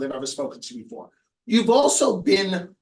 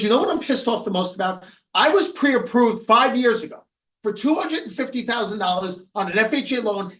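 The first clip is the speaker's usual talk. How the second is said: retold indignant rant, raised and emphatic; pissed off; 5 semitones higher than usual. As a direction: imitate an irritated client venting, pitched up. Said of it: "he was pissed".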